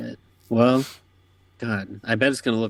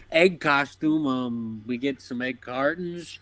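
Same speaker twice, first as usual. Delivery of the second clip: lightly voiced blunt dad; a hint of a no-nonsense Midwestern dad; 2 semitones higher, slower than usual. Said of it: "He's like".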